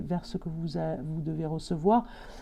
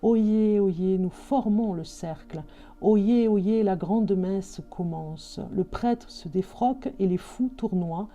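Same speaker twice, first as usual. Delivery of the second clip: slow, ringing medieval proclamation; town crier; slower than usual. Acted. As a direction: call it out like a herald in the square. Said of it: "le message médiéval".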